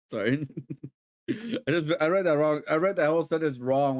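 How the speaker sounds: laughing. Real, not acted. Laughing at own misreading.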